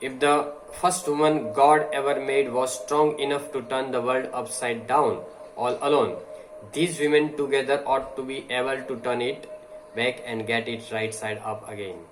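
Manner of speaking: slow, deliberate oratory reading; slow speech reading. Acted. Teacher reading a speech to the class, slow and deliberate. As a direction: read each phrase slowly, like a speech.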